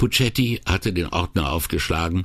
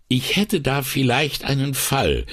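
bescheiden; 9 semitones higher than usual. A narrator's reading. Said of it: "meldete sich Puccetti bescheiden zu Wort".

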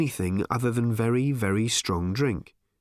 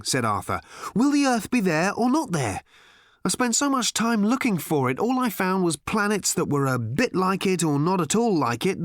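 higher, fretful Englishman rambling on; anxious, exasperated, piling up complaints; Arthur's higher voice; 9 semitones higher than usual. Acted. Arthur worrying to Ford about finding Earth, higher and fretful.

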